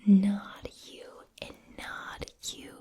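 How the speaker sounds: put-on whispered Boston-accent movie quote; lightly imitated Boston tough line, whispered; Mark Wahlberg. Quoting a movie fight scene, whispered Boston accent. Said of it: "an example of the accent, he says".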